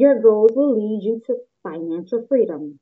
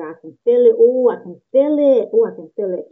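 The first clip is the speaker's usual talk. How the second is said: rising excited cry, louder; overjoyed, can barely hold it in; 6 dB louder than usual. Real, not acted. Excited about the new year.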